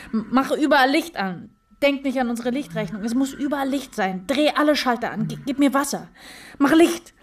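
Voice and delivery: high, urgent and breathless; frantic panic. Acted. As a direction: plead in rising panic. Frantic panic, demanding light.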